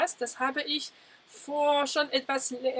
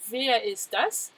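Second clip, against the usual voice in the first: slow model repeat; much slower than usual. Shown as a demonstration. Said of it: "Mais c'est qui celui-là?".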